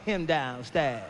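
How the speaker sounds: put-on low, slow, mumbled little-kid voice; slow low mock toddler. Two-year-old telling sister where dad is, slow low mock mumble. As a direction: drag it out like a sulky toddler. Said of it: "He gonna tell her".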